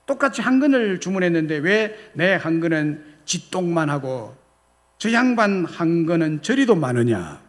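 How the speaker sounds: mildly acted indignant demand; angry outburst. Slighted nobleman challenging the butcher over his portion, mildly angry. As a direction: scold the butcher with a touch of outrage. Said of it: "화가 난 양반이 버럭 소리를 지르며".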